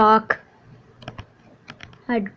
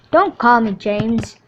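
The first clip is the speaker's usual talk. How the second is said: DONT pushed louder in "Don't call me James"; louder demand; 5 dB louder than usual. Acted. Character correcting the narrator, louder insistence.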